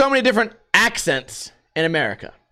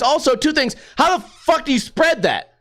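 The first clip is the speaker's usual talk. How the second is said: ordinary talk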